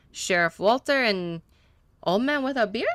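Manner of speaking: lightly put-on Spanish accent, broken English; a hint of a Spanish-speaking mechanic, eager to please; gentle Spanish accent, a little nervous; mechanic's Spanish accent. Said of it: "that was on purpose that he was talking that way".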